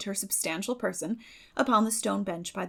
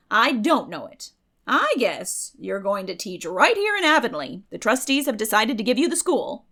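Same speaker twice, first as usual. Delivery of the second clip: Mrs Lynde's voice; 2 semitones higher, 8 dB louder than usual. A narrator's reading. Mrs Lynde reveals news.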